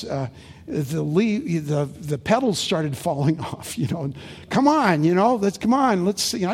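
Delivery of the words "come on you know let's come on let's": lightly voiced coaxing wife, higher and louder; hint of an insistent wife, coaxing; mock urging. Wife voiced urging about roses.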